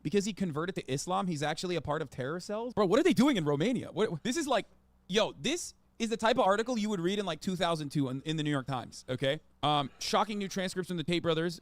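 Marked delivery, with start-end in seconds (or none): 2.7-7.2 incredulous. Real, not acted. Reacting in disbelief to article.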